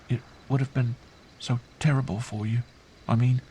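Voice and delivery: put-on high child voice, a touch tearful; child near tears. A narrator's reading. Girl fearing for her uncle, near tears. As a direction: falter slightly, as an upset child. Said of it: "She was on the verge of tears".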